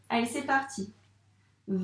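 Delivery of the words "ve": "Ve" with a very long v gliding into held e; sounded-out syllable. Shown as a demonstration. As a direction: buzz through the v of "Ve" as if tracing it. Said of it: "donc on doit le dire, les sons".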